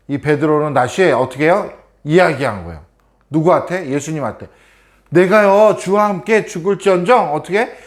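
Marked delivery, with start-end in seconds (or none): 5.1-7.3 eager vow. Acted. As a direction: swear loyalty with zeal. Peter vows loyalty to Jesus. (높고 힘찬 맹세)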